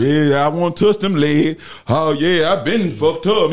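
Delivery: slow, mildly hammed-up old man rambling; a light take on a senile old-timer muttering about his legs. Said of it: "you get senile. So you start saying bullshit".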